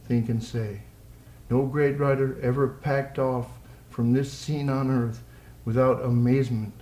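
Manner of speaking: slow, measured poem recital; poetry reading. Acted. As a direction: read the poem line by line, unhurried.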